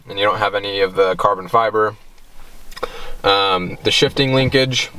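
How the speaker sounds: talking while chewing gum; words round a piece of gum. Real, not acted. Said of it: "I put a piece of gum in my mouth".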